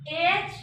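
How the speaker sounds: a long open aa, drawn out; vowel sound demo. Shown as a demonstration. Teacher showing students how to say the vowel. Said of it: "इसका pronunciation ऐसा होगा".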